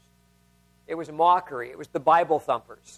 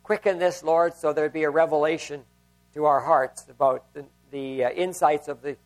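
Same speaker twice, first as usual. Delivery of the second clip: prayer; 3 semitones lower than usual. Acted. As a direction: pray gently over the congregation, letting the voice sink. Pastor leads congregation in prayer.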